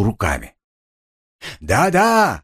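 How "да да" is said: higher, mildly raised mock yell; narrated shout, only lightly raised; hammed-up yelling. A narrator's reading. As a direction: bellow it at the little man. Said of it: "орал полицейский".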